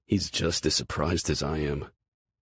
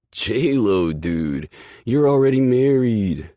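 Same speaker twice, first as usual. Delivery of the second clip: louder, high, incredulous call-out; loud protest; 7 semitones higher, 10 dB louder, slower than usual. Acted. Sully yelling at Gerard. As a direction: shout him down, laughing at him.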